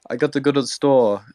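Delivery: hammed-up Brit errand line; mock British accent. American joking in a fake British accent. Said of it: "What do British people say?".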